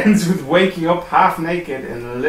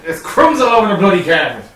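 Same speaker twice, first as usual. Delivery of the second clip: put-on Irish accent; 3 semitones higher, 4 dB louder, faster than usual.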